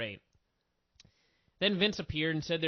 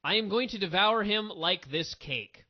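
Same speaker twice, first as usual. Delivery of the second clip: flat retold line; 2 semitones higher than usual. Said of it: "she goes".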